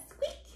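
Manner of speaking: small, soft squeak; tiny short squeak for baby; mouse squeak. Acted. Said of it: "Goes the mouse".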